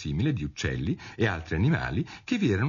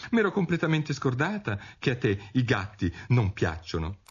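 higher, apologetic Alice; raised-pitch contrite outburst; breathless apology; 6 semitones higher than usual. A narrator's reading. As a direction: apologise in one rush. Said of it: "gridò Alice tutto d'un fiato".

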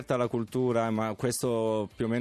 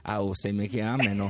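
light Roman accent quip; 3 semitones lower than usual. Real, not acted. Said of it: "tu proprio con l'accento romano".

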